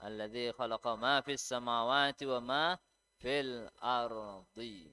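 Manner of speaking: measured Quran recitation, slowing at the end; demonstrated recitation. Shown as a demonstration. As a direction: recite the verse, drawing out the last words.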